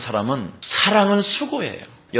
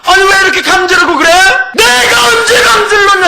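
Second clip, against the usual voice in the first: much higher, louder, fast angry outburst; heated quarrel; 9 dB louder than usual. Acted. Husband and wife fight at the table, shrill angry outburst. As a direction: fling the words like a thrown spoon.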